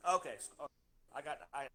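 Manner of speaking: distant, faint voice down the line; speaking too far from the microphone; far from mic. Real, not acted. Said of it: "he still sounds real far away from me".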